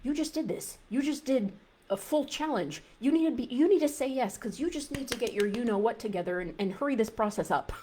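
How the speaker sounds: mock nag hurrying yourself along; nagging inner voice. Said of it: "there's that little voice".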